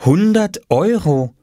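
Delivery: high, slow, amazed reading; staunend. A narrator's reading. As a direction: read it out in astonishment. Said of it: "und staunte". (staunend und gedehnt vorgelesen)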